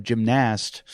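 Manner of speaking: gymnast as "jim-NAST"; full "nast" ending on gymnast; imitated odd pronunciation. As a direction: quote his "jim-NAST" way of saying gymnast. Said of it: "he'd go".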